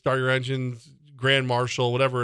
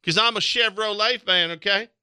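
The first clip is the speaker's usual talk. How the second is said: lightly hammed-up country fan; mock Chevy fan; 4 semitones higher than usual. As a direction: preach it like a proud redneck. Redneck Chevy fan rant.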